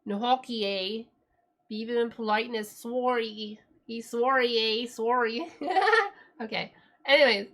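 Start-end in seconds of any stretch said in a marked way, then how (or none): 0.1-5.5 mock Canadian. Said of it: "Beavers and politeness and maple syrup and Tim Hortons".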